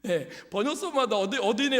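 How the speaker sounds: normal talking voice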